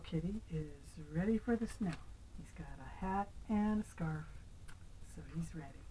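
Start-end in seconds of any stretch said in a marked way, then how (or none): 5.2-5.9 soft whisper to the grandson; hushed whisper. Acted. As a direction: whisper it like a little secret. Hushed aside to child.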